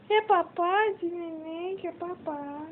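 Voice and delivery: put-on high, sing-song baby talk to a pet. Owner offering her dog food in baby talk.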